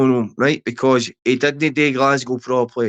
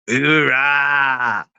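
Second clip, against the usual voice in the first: drawn-out cheer. Real, not acted. Repeats the rallying cheer.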